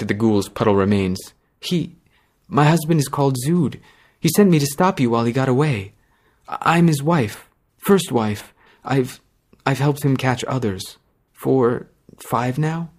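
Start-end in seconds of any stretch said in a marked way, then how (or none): 1.6-12.9 timid. Acted. Ashamed frightened wife confessing.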